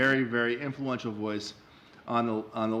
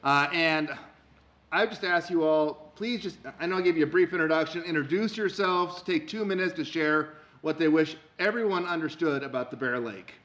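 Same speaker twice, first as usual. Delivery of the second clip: professor voice; 4 semitones higher than usual. Acted. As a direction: project it like a lecturing professor. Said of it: "to my professor voice".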